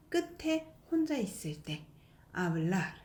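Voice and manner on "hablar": "hablar" with a faint last r; weak final r. Shown as a demonstration. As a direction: let the r at the end of "hablar" fade. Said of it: "약하게 소리 나는 거".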